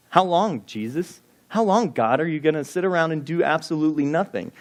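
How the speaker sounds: high, pleading, exasperated cry; a frustrated psalmist demanding God act; desperate plea to God. Acted.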